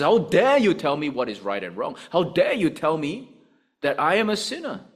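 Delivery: loud, rising indignant challenge; indignant outrage. Retold or imitated. The angry world rebuking Christians, indignant and loud. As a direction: demand it, offended and defiant.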